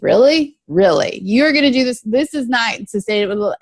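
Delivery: taunting addict voice scoffing at the plan; inner addict voice. Retold or imitated. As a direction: voice the sneering addict in your head. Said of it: "my little addict voice turns on and goes".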